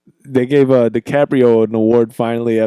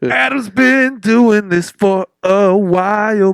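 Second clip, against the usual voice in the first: slow booming intro announcer; 7 semitones higher, much slower than usual. Pretend.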